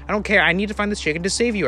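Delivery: high, loud panicked outburst; frantic cry. Acted. Brother cries out frantically searching to save his sister. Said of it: "I cried".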